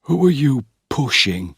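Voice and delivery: Geoffrey squaring up to his pushing brother, angry; angrily. A narrator's reading. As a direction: bristle and take offence. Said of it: "said Geoffrey angrily".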